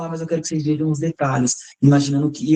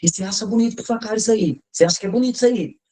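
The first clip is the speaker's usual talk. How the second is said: reproachful scolding voice, pitched up; 6 semitones higher than usual. Retelling how a father talks to a child: imitating a father scolding. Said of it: "Já viu quando fala assim".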